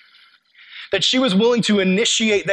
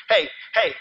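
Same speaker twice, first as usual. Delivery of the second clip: pestering little bird; 2 semitones higher than usual. Retold or imitated. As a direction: lightly imitate someone pestering for attention, like a little bird. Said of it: "like a little bird".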